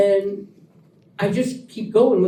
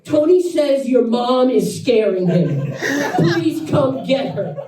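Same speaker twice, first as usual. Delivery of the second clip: laughing; 4 semitones higher, slower than usual. Retold or imitated. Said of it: "comes back out".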